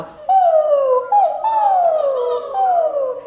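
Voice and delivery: very high, loud howling ooh; wolf howl. Shown as a demonstration. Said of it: "we might do a wolf howl".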